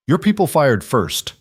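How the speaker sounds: slow, cold cut-in; cold interruption. A narrator's reading. Man interrupts the corrupt agent, slow and cold. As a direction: cut him off coldly, each word deliberate. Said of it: "Dominic interrupted coldly".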